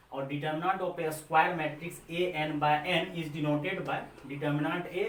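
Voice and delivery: slow teacher dictation of a definition; classroom dictation. Shown as a demonstration. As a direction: read the definition slowly so they can write it.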